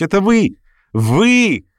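put-on a girl delighted to spot an old friend; young girl's voice. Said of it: "свежий, резвый, юный голос". (юный звонкий голос, радостно зовёт)

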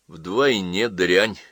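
very slow, unraised insult; even calmer contempt. Acted. Mother answers daughter's outburst, calm contempt. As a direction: stretch it out with cold composure. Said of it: "ещё спокойнее отвечала ей мать".

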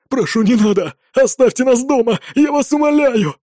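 desperate begging. A narrator's reading. Father begs to stay home, desperate pleading. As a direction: beg with rising panic. Captive begs on his knees.

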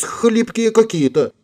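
put-on very high, slow girlish voice; acted clueless little-girl remark; innocent shrug. A narrator's reading. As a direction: draw it out high, playing innocent. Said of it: "пожала плечами Вильямс".

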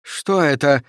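a touch of nervous fear; uneasy question, lightly acted; trembling voice. Daffy hears a rattling sound, asking in a trembling voice. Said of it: "дрожащим голосом спросил Даффи".

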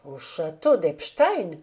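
a mildly astonished cry; exclaimed in surprise. Acted. Professor echoing the student's answer, mildly astonished. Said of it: "s'écria-t-il".

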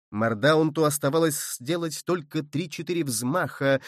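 ordinary delivery

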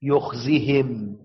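يخزهم said slowly, with the ياء dropped; teacher shows the shortened form; jussive form. Shown as a demonstration. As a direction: read يخزهم slowly with no long ī. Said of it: "طب لو هي يخزهم".

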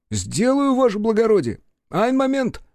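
high, loud servile clerk; eager secretary. A narrator's reading. Secretary answers his master from the doorway, high and eager. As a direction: pop in eager to serve.

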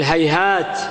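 "هيهات" ending on a clear t; pause on ta. Shown as a demonstration. Teacher giving a quasi-plural, final t. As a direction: stop on the t of "هيهات". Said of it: "وقفت عليها بالتاء".

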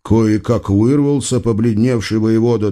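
plain reading voice

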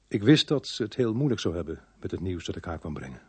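detective telling his story; measured first-person crime narration. Acted. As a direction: narrate the inner reasoning to the listener. Detective narrates between scenes.

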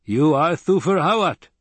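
high-pitched, matter-of-fact answer. A narrator's reading. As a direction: state it as simple fact. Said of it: "the man said matter-of-factly".

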